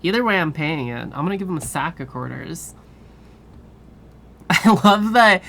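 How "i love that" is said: louder, slow, laughing through the words. Real, not acted. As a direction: giggle out the line. Laughing at the crows.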